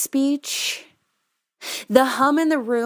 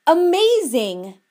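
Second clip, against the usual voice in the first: high, drawn-out cheer; high, slow shouted acclaim; mock audience shout; 8 semitones higher, 4 dB louder than usual. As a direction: imitate a crowd member calling out praise. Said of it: "members of the audience shouted".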